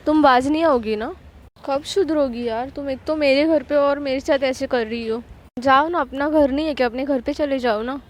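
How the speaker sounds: annoyed scolding, understated anger; angry retort. Acted. Preeti scolding Ananya after the salt prank, mild acted anger. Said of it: "प्रीति को इस tone में बोलते हुए".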